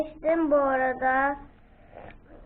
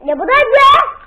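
surprised; 9 semitones higher, 9 dB louder than usual. Real, not acted. Surprise reveal on camera.

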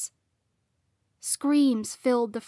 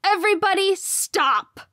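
high, loud command; authoritative raised-voice order; booming shout; 10 semitones higher, 7 dB louder than usual. A narrator's reading. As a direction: halt a whole brawling room. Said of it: "boomed throughout the foyer".

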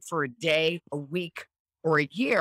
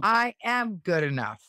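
slow, firm affirmation; total belief. Shown as a demonstration. Countess repeats affirmation, slow and firm. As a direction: press each word of I am good enough. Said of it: "say it with total belief in yourself".

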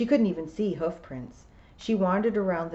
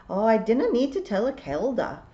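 higher, louder Scottish voice; William the piper, testy Scots; 5 semitones higher, 5 dB louder than usual. A narrator's reading. William refusing to help Tiffany, testy Scots. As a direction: play a stubborn old Scots piper.

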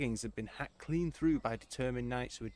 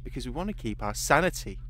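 words pushed through gritted teeth; through clenched teeth; 6 dB louder than usual. Acted. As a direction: keep the jaw tight and speak. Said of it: "his teeth clenched".

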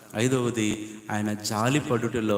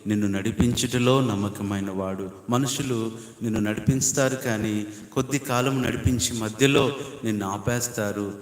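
ordinary talk, nothing marked

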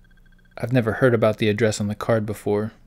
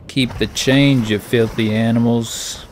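slow, louder mock gangster line; hammed-up tough-guy movie quote; 4 dB louder, slower than usual. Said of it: "maybe I just put on that movie".

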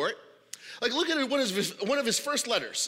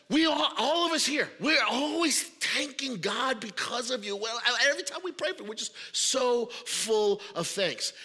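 higher, bright grateful voice; cheerful thanks; 3 semitones higher than usual. Acted. Paul thanking the Colossians, cheerful. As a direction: lift it with joy. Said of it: "very cheerful, very happy".

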